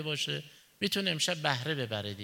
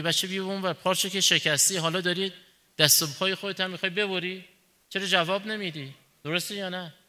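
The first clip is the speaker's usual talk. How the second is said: a father's irritated scolding, a bit louder; mild angry reprimand, a touch raised; 3 semitones higher, 4 dB louder than usual. Retold or imitated. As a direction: tell the careless boy off. Father scolds son over broken jug.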